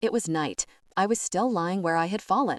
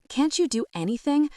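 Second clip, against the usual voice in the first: higher, rising angry demand; exasperated outburst; 7 semitones higher than usual. A narrator's reading. Son berates his father, exasperated and rising. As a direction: fling the question at him.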